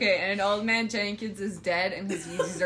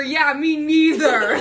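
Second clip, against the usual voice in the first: God whisper; 5 semitones higher, 8 dB louder, slower than usual. Acted. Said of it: "You hear God whisper".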